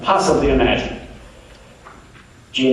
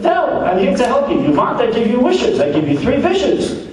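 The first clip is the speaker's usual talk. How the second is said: much higher, brisk Jewish genie voice; 9 semitones higher than usual. Acted. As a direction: pop up as a chirpy genie, voice pitched way up. Genie offers three wishes.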